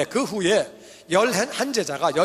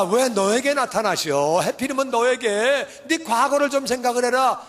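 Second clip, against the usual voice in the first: jealous sneer; 2 semitones higher than usual. Retold or imitated. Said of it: "이게 마음이 완악한 거예요".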